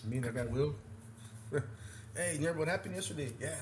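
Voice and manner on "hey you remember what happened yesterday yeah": put-on understated Canadian accent; imitated Canadian accent. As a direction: lightly mimic a Canadian friend's accent. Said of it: "Talking in that Canadian accent".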